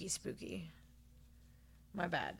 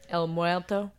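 rolled Spanish "El Muerto"; Spanish accent; 3 dB louder, slower than usual. Shown as a demonstration. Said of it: "Yes, say that again".

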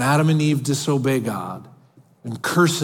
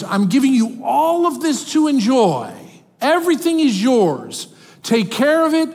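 higher, lifted voice of a loving God; a hint of a tender father offering a gift, pitched up; God speaking lovingly; 7 semitones higher, 4 dB louder than usual. Preacher voicing God's loving offer.

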